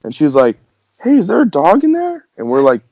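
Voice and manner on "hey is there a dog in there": high-pitched, swooping mock lady voice; lady's question squeaked up high; crackhead lady. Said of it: "this crackhead lady pops out".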